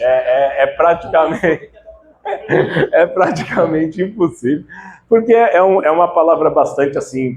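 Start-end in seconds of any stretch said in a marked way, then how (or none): 0.0-4.6 tag. Real, not acted. Laughing at an unpronounceable word.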